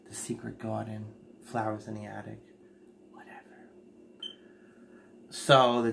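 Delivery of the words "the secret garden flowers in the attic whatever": quiet aside. Real, not acted. Trailing asides, dropping to whisper.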